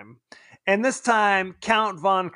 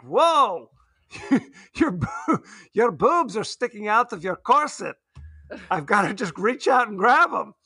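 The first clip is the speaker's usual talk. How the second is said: shaky attempt at a Polish accent, slipping away; Roman Polanski. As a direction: loosely imitate a Polish accent, breaking into a laugh. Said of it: "I'll work on my Polish accent".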